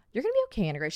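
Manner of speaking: high, gentle imitation of a kind stranger; soothing reassurance. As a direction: coo comfort like the calm seatmate. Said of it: "was so nice and so calm".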